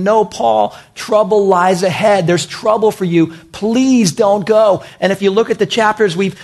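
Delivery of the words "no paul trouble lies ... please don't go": mildly acted urgent warning; pleading. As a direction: imitate believers begging him to stay. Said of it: "these believers along the journey are saying".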